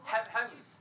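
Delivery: "hymns" in a Scottish accent. Real, not acted. Comedian repeating a word for the crowd, Scottish accent. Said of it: "It's a Scottish accent".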